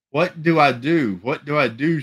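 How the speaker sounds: high, loud panicked scream. A narrator's reading. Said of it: "she screamed".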